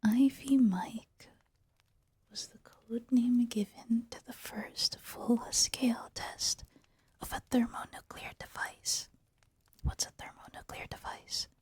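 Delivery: unvoiced whisper through the article; whispered reading. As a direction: read the article in a hushed whisper. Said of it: "I'm whispering".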